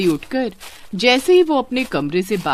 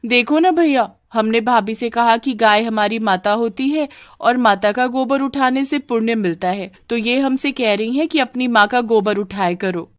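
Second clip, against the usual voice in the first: higher-pitched tattling nanad; complaining sister; 4 semitones higher than usual. Acted. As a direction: tell on bhabhi to big brother. (भैया से शिकायत करती बहन)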